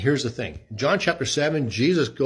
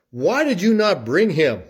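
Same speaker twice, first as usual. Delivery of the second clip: sharp, demanding question, higher and louder; demanding chief priests; 6 semitones higher, 5 dB louder than usual. Retold or imitated. Chief priests demanding why the officers failed, louder. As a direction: press the officers for an answer. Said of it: "who said to them".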